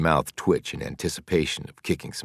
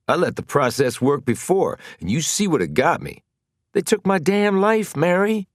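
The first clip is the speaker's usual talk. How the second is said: louder, rising anger toward Mary; bitter, loud complaint; angry outburst; 13 semitones higher, 5 dB louder than usual. Acted.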